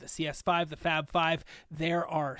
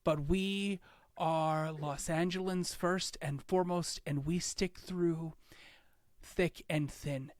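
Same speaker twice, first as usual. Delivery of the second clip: slow, solemn civic address; steady the crowd with gravity; mayor turns solemn after a horrible weekend, slow; serious speech; slower than usual. Acted. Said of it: "then she gets really serious".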